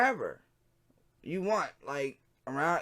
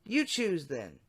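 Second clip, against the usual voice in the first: a lightly raised decoy voice; wrong voice; 3 semitones higher, slower than usual. Shown as a demonstration. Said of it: "Wrong voice".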